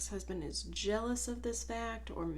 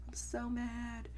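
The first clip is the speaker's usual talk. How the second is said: high, slow hammed-up fury; high, slow joking fury at work; mock outraged threat; 12 semitones higher, slower than usual. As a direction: ham up being furious, drawn out. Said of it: "and I was like".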